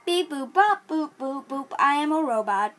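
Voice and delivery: bad robot impression; toy robot voice. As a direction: beep boop like a toy robot. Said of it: "I have a bad robot impression".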